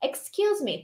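slow, drawn-out model line; slow model reading. Shown as a demonstration. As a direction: say it slowly so they can repeat. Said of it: "Treina aí do outro lado".

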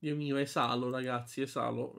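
breathless, exhaling hard; short of breath from allergy; can't breathe. Real, not acted. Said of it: "Io non respiro oggi".

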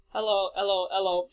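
hammed-up London copper hello; mock bobby greeting. Player mocking the policeman's greeting, hammed-up copper voice. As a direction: play the cliché beat cop hailing a passer-by.

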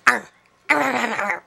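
a mild mock barking sound, like a snapping dog; half-hearted arr arr of a sea lion; imitated sea lion bark. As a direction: lightly mimic the female sea lion nipping at him. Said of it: "nipping at him like a dog".

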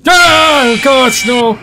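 high sudden scream of panic; panicked scream. Real, not acted. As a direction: yelp before the jump scare. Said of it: "I panicked before he jump scared me".

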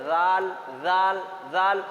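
জাল with a light th-like start. Shown as a demonstration. Teacher drills the letter, জাল lightly articulated. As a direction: say জাল lightly, holding the vowel. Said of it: "হালকা করে".

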